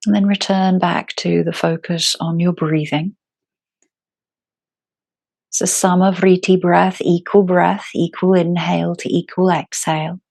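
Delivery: calm, unhurried yoga teacher with long pauses; guided meditation. Acted. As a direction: guide them gently into their breath, phrase by phrase.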